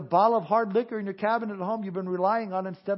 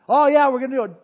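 higher, louder mock enthusiasm; mock eagerness; 5 semitones higher, 9 dB louder than usual. Mimicking the overeager people, loud and high. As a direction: ham up their eagerness.

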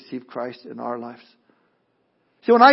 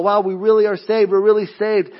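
excited joy; 4 semitones higher, 5 dB louder than usual. Acted. Jews rejoicing at their salvation.

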